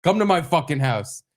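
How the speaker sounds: retold yell without full volume; retold screaming. Dad daring neighbor to come over, retold yelling. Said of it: "I was fucking screaming at this guy".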